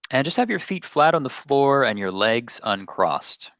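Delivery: unhurried meditation guidance with long pauses; guided meditation. Real, not acted. Meditation teacher settling listeners into their seats, guided meditation. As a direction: gently lead listeners inward, leaving space between phrases.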